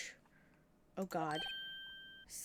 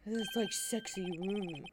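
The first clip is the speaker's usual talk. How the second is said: smoky deep voice; slower than usual. Shown as a demonstration. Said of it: "smoky, kind of deep voice".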